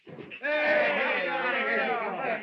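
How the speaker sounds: shouting hey over and over; calling out. Acted. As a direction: call out to get attention. Calling out across the room.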